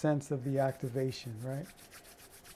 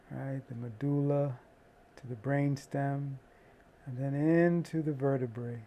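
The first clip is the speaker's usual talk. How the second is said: guided meditation. Acted.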